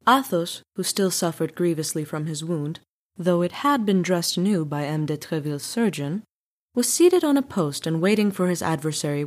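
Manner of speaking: steady storytelling voice; story narration. A narrator's reading. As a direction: read it like a classic novel. Narrator reading the novel.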